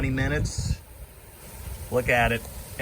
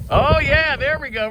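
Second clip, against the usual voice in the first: excited yelp; 12 semitones higher, 4 dB louder than usual. Real, not acted. Excited at snow with dog.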